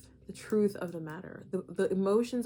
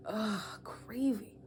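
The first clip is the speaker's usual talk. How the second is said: mock craving groan; 4 dB quieter, much slower than usual. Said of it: "you guys are just like".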